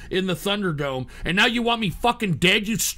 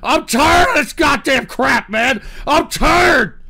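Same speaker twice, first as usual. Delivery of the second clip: angry shout; 3 semitones higher, slower than usual. Real, not acted. Ranting at chat.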